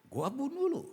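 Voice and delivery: King Saul threatening to kill David; jealous king's threat. Acted. Saul's threat, repeated.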